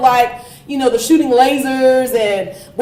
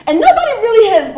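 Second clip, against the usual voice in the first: laughing; 9 semitones higher, 4 dB louder, faster than usual. Real, not acted. Laughing while making a point.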